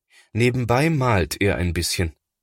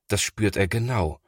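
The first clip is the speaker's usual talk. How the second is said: plain reading voice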